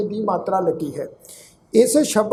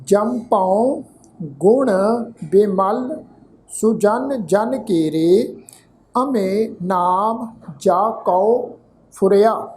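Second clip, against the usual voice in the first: ਜੰਪਉ ਗੁਣ ਬਿਮਲ repeated even slower, word by word; very slow teaching repeat; much slower than usual. Shown as a demonstration. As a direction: spell out the verse again at a crawl for learners. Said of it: "ਇੱਕ ਵਾਰ ਫਿਰ ਤੋਂ ਪ੍ਰਨਾਉਂਸ ਕਰ ਰਹੇ ਹਾਂ ਜੀ".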